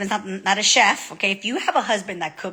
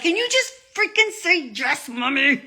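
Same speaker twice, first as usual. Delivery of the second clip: exasperated; 8 semitones higher than usual. Retold or imitated. Retold plea to argumentative son.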